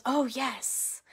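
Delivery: quiet, lightly voiced grateful man; a hint of a sleepy stranger accepting; softly voiced man saying yes. Woken man accepting the hoodie.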